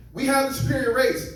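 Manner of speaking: a failed attempt at a German accent; comic doing Hitler in a bad German accent. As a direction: try a German accent and miss. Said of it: "I realized I can't do a German accent".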